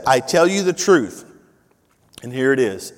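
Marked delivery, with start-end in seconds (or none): 0.1-1.2 louder, punch each word; emphatic announcement. Shown as a demonstration. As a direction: pastor rouses the congregation to perk up, emphatic. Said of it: "you perk up".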